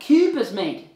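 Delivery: loud mock Australian catchphrase; Australian accent. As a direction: toss it out in unreliable Australian. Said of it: "as Dave's Australian accent".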